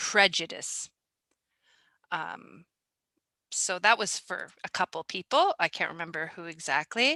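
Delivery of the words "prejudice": strong stress on the syllable "pre" of "prejudice". Going over pronunciation trouble with the word prejudice: stress on first syllable pre. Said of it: "the strong stress is on the first syllable".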